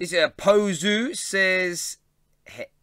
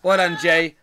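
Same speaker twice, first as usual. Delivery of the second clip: laughing; 2 semitones higher, 8 dB louder than usual. Real, not acted. Praising moderator while laughing.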